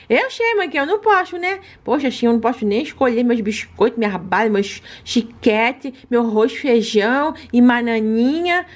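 lightly whiny pet voice; a touch of pouty pet; baby-voiced pet complaining. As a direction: sulk a little like a cute dog.

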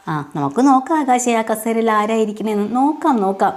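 let's see, Akash, lean into it like a knowing threat; wife tossing a challenge back at her scheming husband, teasing; mock challenge. Meenakshi taunts Akash back.

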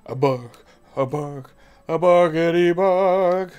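slow, loud put-on dog bark. Playing the dog, mock barking at a cat.

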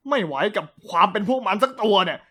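ordinary delivery, nothing marked

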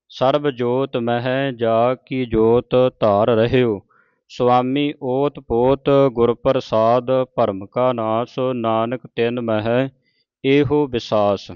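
slow, measured verse reading; scripture recitation. Shown as a demonstration. Teacher reciting Gurbani to the congregation, slow and measured. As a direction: draw out each sacred word.

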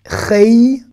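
"Rei" with a drawn-out e-i glide; yod clearly pronounced. Shown as a demonstration. Teacher stressing that this yod matters, clearly sounded. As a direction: let the final i ring in "Rei". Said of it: "là, ici, je le prononce bien".

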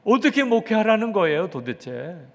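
loud, high-pitched outburst of complaint to God; 원망의 기도. Retold or imitated. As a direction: cry out in protest, acting out an exasperated pastor's prayer. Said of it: "하나님 앞에 소리소리 지르면서". (소리치며 따지는 원망의 기도 재연)

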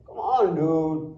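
drawn-out, dismissive quote; quoted sceptic. Retold or imitated. Speaker quoting a doubter in the audience, drawn-out dismissal. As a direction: stretch the words slowly like a doubter. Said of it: "मुझे अभी भी किसी ने बोला".

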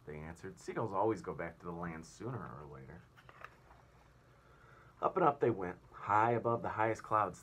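put-on reading aloud to children; lively read-aloud for a class; storyteller voice for kids; story narration. A narrator's reading. Teacher reads story aloud.

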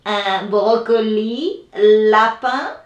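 lightly voiced worm offering broccoli; garden creature's offer. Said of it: "pops out and says".

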